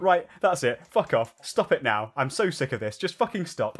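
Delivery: loud, fed-up yell at a dream face; retold yelling. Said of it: "just yelling".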